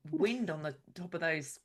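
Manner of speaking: slow line slipping into Australian; accent drifting Australian by mistake; accidental Australian. Real, not acted. Player voicing a windy-cliff line, accidental Australian accent. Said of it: "I've gone Australian".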